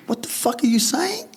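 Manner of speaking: high, incredulous what-the-fuck; shocked outburst. Retold or imitated. Son snapping at mum over the phone, shocked. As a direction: blurt it out in disbelief. Angry retort to mum, retold.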